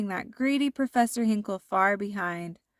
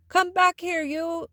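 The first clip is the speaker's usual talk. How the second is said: angry cry; 9 semitones higher than usual. A narrator's reading. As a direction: shout after him to stop. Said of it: "cried Professor Hinkle".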